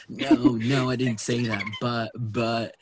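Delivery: lightly acted flustered stammering denial; mock scared. Husband confronted about having a boyfriend, mock scared. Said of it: "shaking in his boots".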